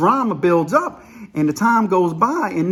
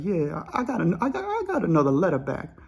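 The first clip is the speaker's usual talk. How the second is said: downcast; 6 dB quieter than usual. Retold or imitated. Smokey telling the inmates about the letter, downcast and soft. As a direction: report it like bad news weighs on you. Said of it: "and he's kinda sad".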